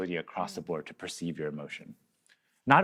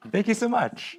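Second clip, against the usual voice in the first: laughing; 11 semitones higher, slower than usual. Real, not acted. Laughing thanks after song.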